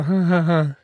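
spoken-out fake ha-ha-ha; acted awkward laugh. Father-to-be hiding happy tears at the scan, awkward fake laugh. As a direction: laugh it off, badly faked. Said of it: "hab dann so".

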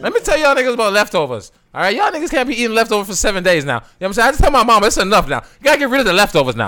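high, loud ranting rapper impression. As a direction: rant like a rapper laying down the law. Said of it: "That's my rapper voice".

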